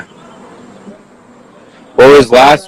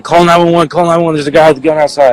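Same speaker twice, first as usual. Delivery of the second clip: higher, urgent mock scream for help; raised-pitch retelling of a panicked call; retold screaming; 5 semitones higher, faster than usual. Witness retelling his cry for help, mock screaming. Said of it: "I started screaming".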